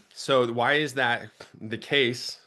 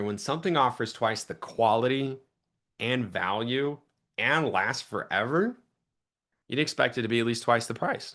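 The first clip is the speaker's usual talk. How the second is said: slow, spaced pitch line; slow deliberate sales pitch. Shown as a demonstration. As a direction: let each phrase land slowly. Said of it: "I would slow down here".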